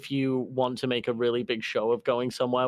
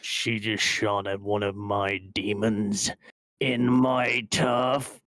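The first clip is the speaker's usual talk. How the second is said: slow, menacing crime boss; gruff boss voice; 2 semitones lower, slower than usual. Acted. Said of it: "The very gruff voice of your boss".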